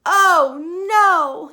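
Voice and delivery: very loud, high wail of dismay; yelled oh no. Acted. Mother seeing invisible Bridget, wailing. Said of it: "yelled her mother".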